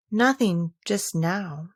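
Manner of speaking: slow, a touch of sadness; rather sad. Acted. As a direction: let it fall slowly, a little sad. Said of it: "She answered rather sadly".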